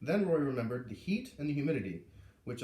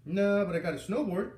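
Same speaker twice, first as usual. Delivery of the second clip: put-on a boy answering, higher and louder; 7 semitones higher, 6 dB louder than usual. A narrator's reading. Roy answering Garrett in the cafeteria, higher and louder. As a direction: say it up and out like a proud kid.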